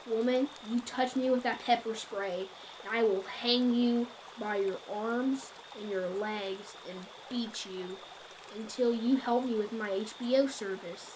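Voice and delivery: lightly voiced threatening creep; a hint of a menacing stranger; creepy stranger's threat. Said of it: "it was the exact same one from the calls".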